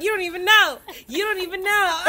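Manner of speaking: high, loud singsong gloat; mock taunting. Woman imagines taunting the boyfriend, loud singsong gloat. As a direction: rub it in, teasing. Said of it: "I would've been like".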